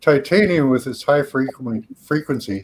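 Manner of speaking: talking with something in his mouth; words muffled by a mouthful; mouth full. Real, not acted. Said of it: "sorry, I got something in my mouth".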